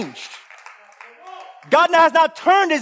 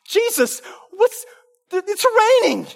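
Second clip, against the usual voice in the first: higher mock fretting at Jesus; mock panicked believer; 8 semitones higher than usual. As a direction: play a worried churchgoer. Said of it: "That's how we think. Like".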